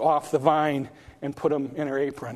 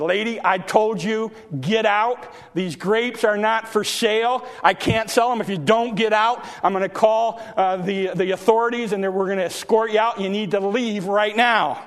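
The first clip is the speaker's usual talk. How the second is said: indignant gardener; 4 semitones higher than usual. Acted. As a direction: chase the intruder out of the king's garden. Gardener threatens to call authorities.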